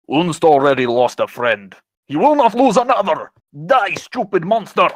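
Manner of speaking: a half-orc champion defends his friend; heroic battle cry. Acted. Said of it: "And he goes".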